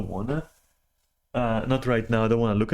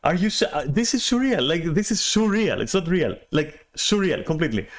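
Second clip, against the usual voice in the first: can't believe what he's hearing; incredulous; 7 semitones higher than usual. Retold or imitated. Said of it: "And I'm like".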